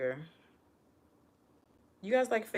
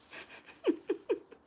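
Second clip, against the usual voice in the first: high breathy laugh. Real, not acted. Laughs after retort.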